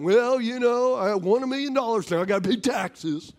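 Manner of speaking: whiny Debbie Downer. Retold or imitated. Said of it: "Debbie Downers all the time".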